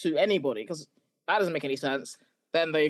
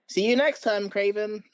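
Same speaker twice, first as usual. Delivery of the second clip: put-on a British actor's stiff American accent, pitched up; lightly mocking American accent, higher; 5 semitones higher than usual. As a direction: ham up a fake American accent for the goodbye. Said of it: "in an American accent".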